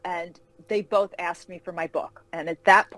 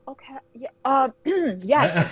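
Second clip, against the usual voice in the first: giggly, higher, tripping over her yeses; flustered laughing yes; 5 semitones higher, 4 dB louder than usual. Retold or imitated. Fan overwhelmed by her hero's request, laughing flustered agreement. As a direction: laugh through it like a starstruck fan.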